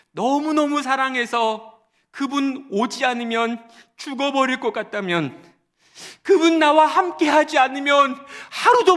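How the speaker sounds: high, loud preaching cry; preacher crying out to the congregation; fervent preaching. Acted. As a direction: preach it with full fervour. Preaching at full force.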